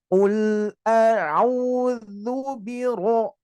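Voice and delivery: very slow, chanted "a'udzu biro"; drawn-out tajwid recitation; slow Quran recitation. Shown as a demonstration. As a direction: recite it slowly, tongue on the upper teeth for dz. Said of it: "ujung lidah menempel ke gigi seri atas".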